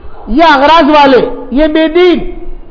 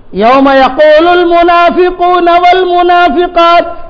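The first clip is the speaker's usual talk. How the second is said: slow, drawn-out tilawat with a raised pitch; Quranic recitation; 2 semitones higher, much slower than usual. Acted. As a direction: intone the verse slowly like tilawat. Same verse recited again. (آہستہ، کھینچ کر قرآنی تلاوت)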